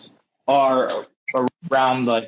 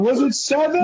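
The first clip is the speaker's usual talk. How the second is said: mimicked wife's shout; 10 semitones higher than usual. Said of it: "She screams in the background".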